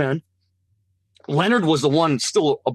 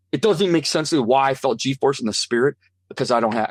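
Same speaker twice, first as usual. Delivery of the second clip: ordinary talk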